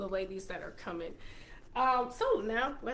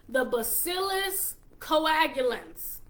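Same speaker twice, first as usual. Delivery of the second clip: slow, slightly raised Texas twang; Texas accent; 4 semitones higher, slower than usual. Shown as a demonstration. Vlogger attempting a hard ingredient name for viewers, Texas accent. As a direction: sound it out slowly with a Texan lilt. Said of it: "say it with a Texas accent".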